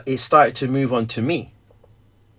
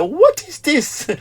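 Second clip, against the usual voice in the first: surprised; 11 semitones higher than usual. Retold or imitated. Boy reacts to dad's hand-washing order, surprised and laughing. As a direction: act baffled and amused. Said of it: "I was like".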